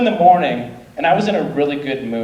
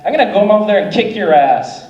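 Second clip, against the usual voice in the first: mock angry threat; 6 semitones higher, 4 dB louder than usual. Guy threatens to fight.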